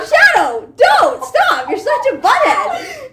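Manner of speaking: high, loud laughing scold; yelling at the dog. Retold or imitated. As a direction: scold the dog sharply while half laughing. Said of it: "yelling at him to stop".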